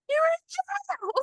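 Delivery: high, slow, drawn-out mock delivery; imitating Lacey. Imitating Lacey telling Mark he is in jail, high and slow. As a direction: stretch it out like a teasing Lacey. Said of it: "the way Lacey delivered that line".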